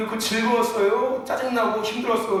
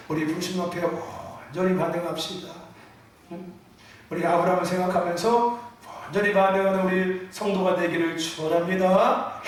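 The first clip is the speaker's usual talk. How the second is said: restrained, lower-pitched sermon delivery; calm, unheated preaching; 4 semitones lower than usual. Shown as a demonstration. Preacher shows the congregation how he could preach gently, calm. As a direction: preach it evenly without getting worked up. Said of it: "왜 이렇게 열을 내냐?".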